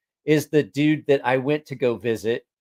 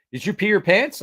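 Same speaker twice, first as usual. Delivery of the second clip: higher-pitched mock asking; incredulous question; 7 semitones higher, 3 dB louder than usual. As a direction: imitate a nosy, incredulous asker. Acted question of someone asking.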